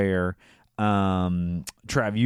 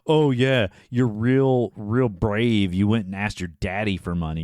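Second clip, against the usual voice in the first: sarcastic attitude. Retold or imitated. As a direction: taunt her as a cocky Johnny, lightly imitated. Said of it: "Johnny gives her some attitude too".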